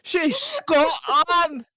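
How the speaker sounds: high, slow mock war cry; battle cry. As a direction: roar it like Braveheart.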